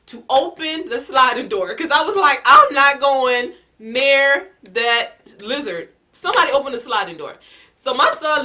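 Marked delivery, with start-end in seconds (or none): 2.5-5.9 slow, drawn-out and loud, backing away; scared refusal. Retold or imitated. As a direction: dig in your heels, terrified of the lizard.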